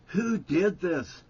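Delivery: angry demand. Retold or imitated. Stan demanding who spoiled the wine, loud and angry. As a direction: demand an answer in anger.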